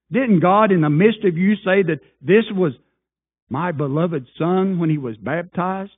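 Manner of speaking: a hint of Peter preaching loud to the crowd. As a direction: proclaim it like an apostle in the square. Voicing Peter's Pentecost sermon.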